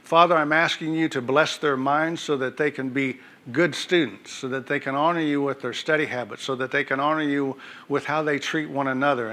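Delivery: earnest church prayer, rising and falling; fervent prayer. Acted. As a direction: pray it out over the congregation. Pastor leads congregational prayer.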